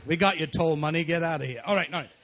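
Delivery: put-on blunt Maine-accented send-off; loud, dry Maine accent; Maine humor voice. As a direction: shoo them off like a Maine local. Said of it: "That's my little Maine humor thing".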